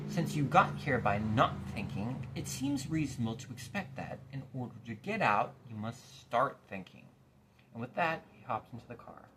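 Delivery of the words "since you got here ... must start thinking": impatient. Acted. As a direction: spell it out, losing patience. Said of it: "continued the watchdog impatiently".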